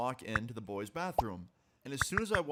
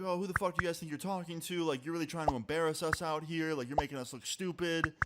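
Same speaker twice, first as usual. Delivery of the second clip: mildly heated, slightly raised imitation; retold angry yelling; 4 semitones higher than usual. Caught couple confronts the two guys, mild mock yelling. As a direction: confront them with a touch of mock outrage. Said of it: "The guy's yelling at him, she's yelling at me".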